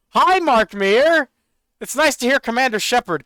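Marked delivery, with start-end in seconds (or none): 0.1-1.3 excited greeting. Real, not acted. Greets the voice actor's voice.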